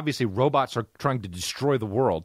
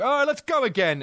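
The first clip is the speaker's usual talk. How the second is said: imitating the heated actor; 9 semitones higher than usual. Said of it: "he's like".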